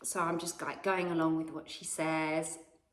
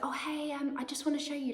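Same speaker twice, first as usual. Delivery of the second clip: put-on higher, a light old lady voice; sweet old lady; 8 semitones higher than usual.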